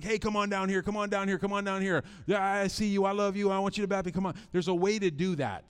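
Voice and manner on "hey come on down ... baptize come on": mildly fired-up altar-call imitation; mock urgent coaxing, slightly raised and insistent; worked up. Preacher urging people down to be baptized, mock worked-up. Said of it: "get all worked up and fired up".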